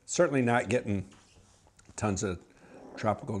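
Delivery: talking into wine glass; sniffing between words; glass at nose. Real, not acted. Seen 0: Right man holds glass at nose; real sips only come later.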